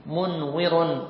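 "منور" stretched out very slowly and softly; drawn-out "منور", syllable by syllable; very slow repeat. Shown as a demonstration. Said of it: "فنقول منور".

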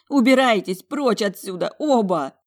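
high, loud commanding shout; high, loud furious order. Acted. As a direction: drive them both out of the room. Girl ordering fighters out.

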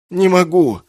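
high, loud, breathless laugh-moan; gasping through laughter. Acted. Kessin, helpless with laughter, gasping. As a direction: barely get it out while laughing. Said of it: "простонал он, задыхаясь".

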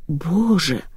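hushed, shocked exclamation; understated aghast gasp. A narrator's reading. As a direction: gasp it softly in mild shock. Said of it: "ахнула бабушка". (тихо ахнуть)

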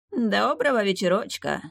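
high, rattling voice of a small demon. A narrator's reading. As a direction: greet them in a reedy, rattling voice. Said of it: "высоким дребезжащим голосом поздоровался".

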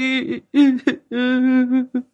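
high tearful sob; sobbing cry. A narrator's reading. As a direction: break into a wailing sob. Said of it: "vừa khóc". (tiếng khóc nức nở)

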